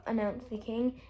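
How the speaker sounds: usual speaking voice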